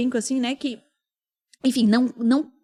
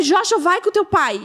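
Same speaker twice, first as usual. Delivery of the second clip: retold hysterical yell; 6 semitones higher, 4 dB louder than usual. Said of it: "gritando, assim, histericamente".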